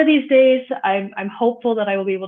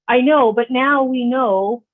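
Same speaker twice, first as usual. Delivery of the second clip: defiant shrug; 4 semitones higher, 6 dB louder, slower than usual. Retold or imitated. Sister scolds her after escort.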